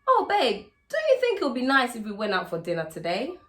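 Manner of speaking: sugary wifely coaxing; sweet babe ask. Shown as a demonstration. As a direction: coax him with a sugary question. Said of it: "phrase your statements like it's a question".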